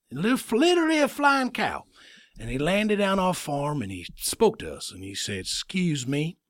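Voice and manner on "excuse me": put-on lightly accented Tattoo from Fantasy Island; polite line in a Fantasy Island accent; a touch of Tattoo's island-host accent. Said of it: "He had a little accent".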